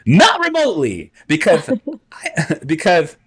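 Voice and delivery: high, slow, pompous schemer; Vizzini voice. Acted. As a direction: reason it out aloud, smug and theatrical.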